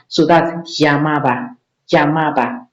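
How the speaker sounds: "llamaba" said as yamaba. Shown as a demonstration. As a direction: say "llamaba" starting with a Y sound. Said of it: "they use y".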